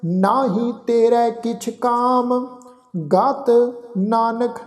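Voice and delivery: slow, devout chanting, each phrase drawn out; gurbani recitation. Acted. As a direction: chant the verse with reverence.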